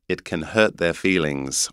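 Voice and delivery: English "hurt" with the R dropped; English accent. Shown as a demonstration. Teacher contrasting R sounds, English accent. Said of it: "you can hear in the North American accent".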